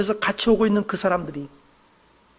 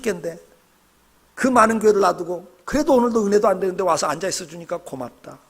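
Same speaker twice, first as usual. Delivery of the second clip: grateful inner thought; 2 semitones lower than usual. Retold or imitated. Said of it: "이게 제 본심이에요".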